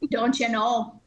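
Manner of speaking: put-on Wisconsin accent. Shown as a demonstration. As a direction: pretend to be really Wisconsin. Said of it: "I can pretend to be really Wisconsin".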